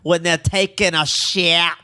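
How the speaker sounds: put-on Scottish accent, loosely held. Friend keeps the bit going, mock Scottish accent. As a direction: attempt a Scottish accent, stretching key words. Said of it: "I saw a Scottish mom do that".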